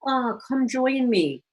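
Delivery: high, bubbly mock invitation; animated yellow type. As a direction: imitate an eager fun-seeker. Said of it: "often speak with animated, fun, exaggerative".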